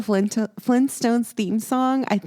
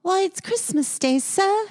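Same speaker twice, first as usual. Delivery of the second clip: mock Cockney; 7 semitones higher than usual. Friend mimics the play's Cockney boy, mock Cockney. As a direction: toss off a hammed-up Cockney hello. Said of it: "has a Cockney accent".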